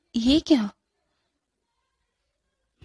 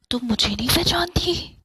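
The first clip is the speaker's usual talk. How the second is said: ghostly whisper. Acted. Ghost brother speaks.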